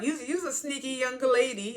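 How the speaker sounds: careful slowdown. Retold or imitated. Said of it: "she had to slow".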